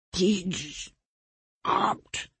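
"Pidge opt", consonants slurred, words broken apart; tongueless garbled speech. A narrator's reading. Tongueless victim begs his killer, "Pidge opt" garbled. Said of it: "that was the best he could do to form the words".

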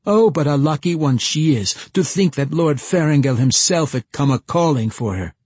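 high, loud cackling crone voice; old gnome woman. Acted. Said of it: "sounding like an old gnome woman".

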